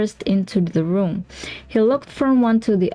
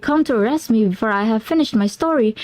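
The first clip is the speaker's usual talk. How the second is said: put-on frantic young client; 2 semitones higher than usual. McFarlane pleads with Holmes.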